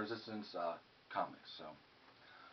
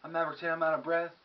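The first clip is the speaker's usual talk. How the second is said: catchphrase; 4 semitones higher, faster than usual. Shown as a demonstration. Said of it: "So I started saying".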